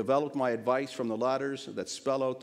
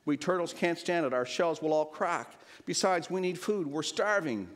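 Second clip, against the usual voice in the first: higher, mildly plaintive groan; groaned complaint; 6 semitones higher than usual. A narrator's reading. Bottom turtle begging the king, groaned complaint. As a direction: plead in a raised voice. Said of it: "groaned Mac".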